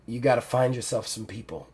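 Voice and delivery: put-on soft, fading old woman's voice; dying mentor, tender. Dying mentor thanks Ruby, soft and tender. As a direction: speak gently through the weakness.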